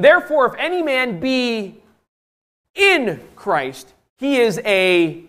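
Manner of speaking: high, loud, drawn-out recitation; proclaimed scripture. Real, not acted. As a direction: declare the verse slowly, suspending each phrase.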